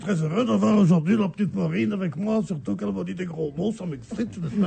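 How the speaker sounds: put-on a light Brussels accent, teasing; lightly put-on Brussels accent. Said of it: "c'est l'accent bruxellois".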